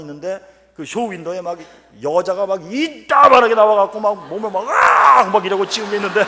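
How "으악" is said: high, loud mock shriek; imitated scream of the poster woman, high and loud.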